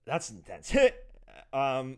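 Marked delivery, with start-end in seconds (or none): 0.8-1.5 sudden loud burst of laughter. Real, not acted. Reacts to intense chat quote.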